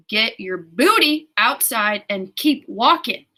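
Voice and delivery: hammed-up order, drawn out word by word; bossy universe. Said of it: "the universe is telling me".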